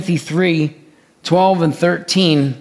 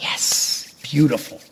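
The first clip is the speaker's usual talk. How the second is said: gloating enemy; 3 semitones lower, 3 dB quieter than usual. Retold or imitated. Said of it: "the enemy is like".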